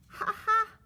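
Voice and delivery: high, loud mocking laugh. Little sister laughing at Felix's spilled cereal. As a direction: laugh at brother's mess. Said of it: "Anna laughed".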